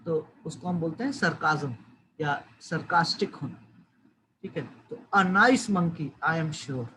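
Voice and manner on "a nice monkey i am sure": sarcastic. Shown as a demonstration. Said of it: "वो basically ताने मार रही है".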